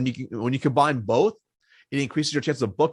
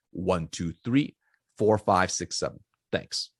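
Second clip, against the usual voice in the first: firm, direct, unhurried voicemail read; firm and simple; 3 semitones lower than usual. Shown as a demonstration. Salesman demos his voicemail, firm and direct. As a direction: leave the message plainly, no sales tone. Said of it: "it's gonna sound like this".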